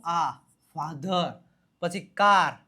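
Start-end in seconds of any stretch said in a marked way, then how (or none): 2.0-2.5 કાર with a loud, drawn-out aa; long aa sound. Shown as a demonstration. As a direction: stretch the open vowel in કાર. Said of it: "આ આવ્યો". (કાર માં લાંબો આ)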